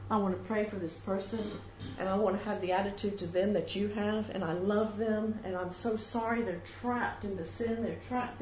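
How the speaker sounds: acted sorrowful intercession; heartfelt prayer. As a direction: plead tenderly on someone's behalf. It's a time for big prayer.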